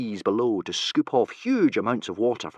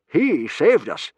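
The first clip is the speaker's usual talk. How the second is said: gruff Gobber voice; 8 semitones higher, 8 dB louder, slower than usual. A narrator's reading.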